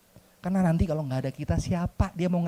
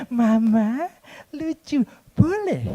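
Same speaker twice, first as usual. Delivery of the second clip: put-on high pleading kid, begging mama; child begging mama to buy something cute; whiny child voice; 7 semitones higher, much slower than usual. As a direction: wheedle like a small child asking for a toy. Child begging parent in story.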